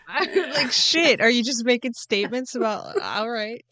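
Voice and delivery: laughing through the words. Real, not acted. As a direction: chuckle it out. Laughing at her mix-up.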